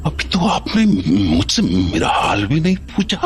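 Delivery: a son holding back tears; choked-up pleading; tearful plea. Acted. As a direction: voice catching as he pleads. Son hurt by mother's rejection.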